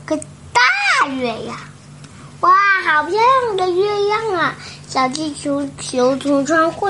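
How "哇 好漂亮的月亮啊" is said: excited. Acted. Chick marvels at the moon.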